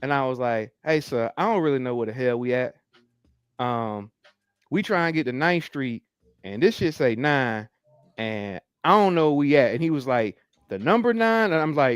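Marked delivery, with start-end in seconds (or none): 0.8-9.7 thick, put-on Southern drawl laid on heavy. Retelling asking a man for directions, laying on a heavy Southern drawl. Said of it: "in my most southern drawl ever".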